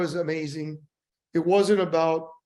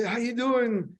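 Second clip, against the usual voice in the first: upbeat, higher friendly hello; chirpy hello once more; cheerful greeting; 6 semitones higher, slower than usual. Retold or imitated. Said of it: "And he says".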